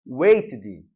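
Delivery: "waited" with the ending said as "id"; teacher's clear "waited", extra syllable after the T; correct ED pronunciation. Shown as a demonstration. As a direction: model "waited" as two syllables, "wait-id". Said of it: "a pronúncia correta é".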